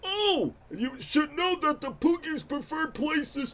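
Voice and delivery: put-on old man voice. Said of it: "the old man voice is normally easy for me".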